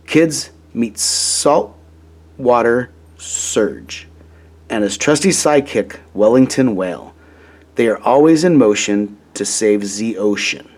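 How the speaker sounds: put-on a light, slowed French accent for a toy hero's slogan; Dad hams up a French accent for his favorite toy. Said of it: "with his best French accent".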